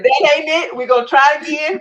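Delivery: loud, tearful protest to God, voice near breaking; crying out in protest. Retold or imitated. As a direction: push back through the tears, loud and raw. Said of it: "I'm still crying".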